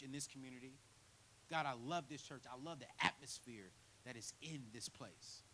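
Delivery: earnest spoken prayer. Acted. Pastor praying over the congregation, earnest. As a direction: pray sincerely over the church.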